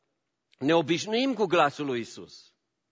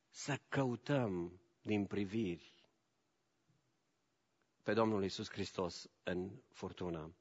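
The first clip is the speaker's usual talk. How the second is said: soft intimate plea; 7 semitones lower, 10 dB quieter than usual. Acted. Preacher gently urging listeners to seek Jesus, hushed. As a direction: draw them in quietly.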